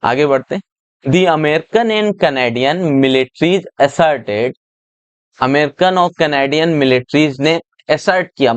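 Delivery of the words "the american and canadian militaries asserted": slow passage reading. Shown as a demonstration. Teacher reads passage aloud slowly.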